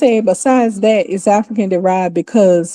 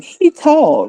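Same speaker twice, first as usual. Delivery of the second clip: Ebonics grammar demo; 6 semitones higher than usual. Shown as a demonstration. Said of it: "this is how Africans talk".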